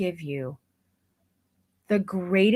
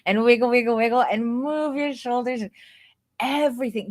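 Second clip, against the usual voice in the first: coaching voice; 2 semitones higher, faster than usual. Shown as a demonstration. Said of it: "my vocal intonation went from".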